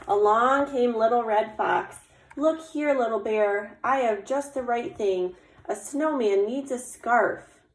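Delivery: animated read-aloud with lifted character greeting; story narration. A narrator's reading. Little Squirrel offers eyes for the snowman, animated storytelling. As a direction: tell it to children, giving the helper a bright hello. Reads picture book aloud.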